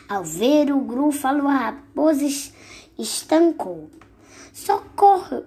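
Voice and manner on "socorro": high, loud panicked cry; shout for help. Acted. Frightened fox shouts for help on seeing the gruffalo, high yell.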